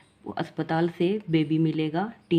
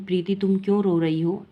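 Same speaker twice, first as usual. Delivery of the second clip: a light lift, as Suman madam asks; teacher asking kindly; 2 semitones higher than usual. Acted. Suman madam asks a crying Preeti why she cries, lightly voiced.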